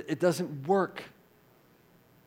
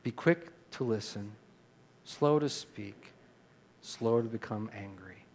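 leading recitation; 4 semitones lower, 3 dB quieter than usual. Shown as a demonstration. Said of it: "Say that with me, would you?".

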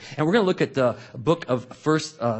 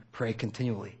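soft quoted verse; 3 semitones lower, 8 dB quieter than usual. Shown as a demonstration. Quoting verse softly.

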